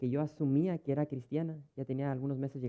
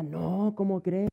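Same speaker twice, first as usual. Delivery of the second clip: mock shocked denial; 6 semitones higher, 6 dB louder, much slower than usual. Voices woman shocked denial.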